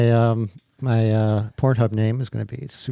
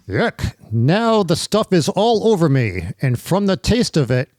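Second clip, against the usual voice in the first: put-on slow, heroic old radio announcer; 1930s radio Superman; 3 semitones higher, slower than usual. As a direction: read it like a 1930s radio serial hero. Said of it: "a nineteen thirties radio voice of Superman".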